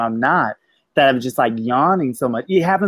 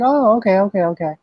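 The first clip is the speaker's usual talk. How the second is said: mock surprise; 7 semitones higher than usual. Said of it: "and I was like".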